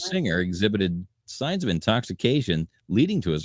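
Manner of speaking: measured news-copy delivery; entertainment news read. A narrator's reading. Host reads the arrest report to co-hosts, news read.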